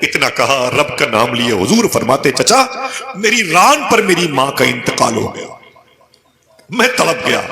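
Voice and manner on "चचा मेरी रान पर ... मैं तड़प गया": high, anguished telling; grieving cry. Retold or imitated. Prophet telling his uncle of his mother's death, anguished. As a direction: voice climbs in grief.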